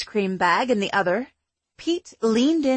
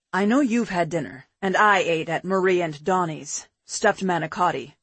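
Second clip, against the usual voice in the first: put-on lower, relaxed boyfriend voice; man's voice; 4 semitones lower than usual. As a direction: drop lower for a calm man. Pete's dialogue, lower voice.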